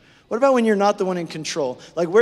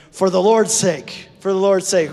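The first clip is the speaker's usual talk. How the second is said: emphatic call-and-response; 5 dB louder than usual. Shown as a demonstration. Preacher leading the congregation, loud and emphatic. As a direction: say it with weight to your neighbour. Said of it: "turn to the person next to you and say".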